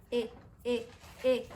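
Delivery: short, separate "E" sounds; teacher modelling a short Spanish "e"; isolated letter sound. Shown as a demonstration. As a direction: say "e" as a pure vowel, evenly spaced. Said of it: "¿Qué sonido hace esta?".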